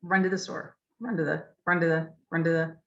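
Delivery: "run to the" run together fast with schwas; said quickly. Shown as a demonstration. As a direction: rattle it off quickly. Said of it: "if I say it quickly".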